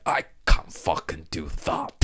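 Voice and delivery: exaggerated British accent imitation; put-on, heavy UK accent; mock thick UK accent. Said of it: "Gina is straight fucking U K".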